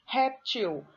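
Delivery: "Réptil" with an emphatic REP, then falling away; stress on first syllable. Shown as a demonstration. Teacher showing the difference from funil, "Réptil" stressed on REP. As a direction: punch the start of "Réptil", REP-til. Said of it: "a sílaba tônica é no rep".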